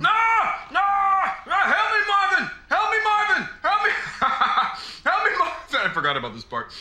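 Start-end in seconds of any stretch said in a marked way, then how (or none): 0.0-3.9 mock scream. Screaming as trapped character in game. 5.0-5.9 mock scream. Screaming as trapped character in game.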